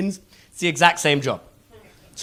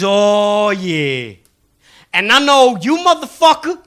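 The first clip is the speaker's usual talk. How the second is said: street mind-reader; 7 dB louder, slower than usual. Retold or imitated. Comedian playing the salesman sizing up the Missouri student. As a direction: sum him up with swagger. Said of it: "he goes".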